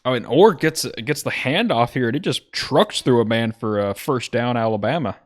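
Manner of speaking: hyped commentator burst; excited call. Real, not acted. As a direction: call the big run with a jolt of excitement. Big run play called live.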